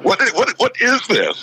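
baffled guard. Retold or imitated. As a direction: sputter like a stunned guard. Imitating baffled security guy.

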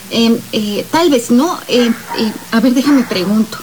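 stammering with ems and ehs; insecure hesitation. Shown as a demonstration. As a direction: hedge and stall, unsure of the answer. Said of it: "Obviamente esto refleja inseguridad". (titubeo inseguro lleno de muletillas)

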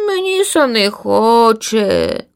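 slow, reluctant chick voice; slow, unwilling whine; lazy chick. A narrator's reading. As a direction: drag it out like a lazy little bird. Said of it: "далевила своє лінивка".

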